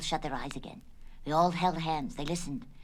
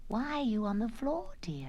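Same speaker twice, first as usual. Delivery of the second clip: higher, hushed tender question; whisper; 5 semitones higher than usual. Acted. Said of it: "her mother whispered".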